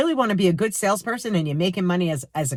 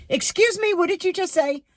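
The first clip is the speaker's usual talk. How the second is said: much higher, indignant Excuse me; New Yorker outrage; 11 semitones higher than usual. Retold or imitated. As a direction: snap back like an offended New Yorker. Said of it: "my little New Yorker came out in me".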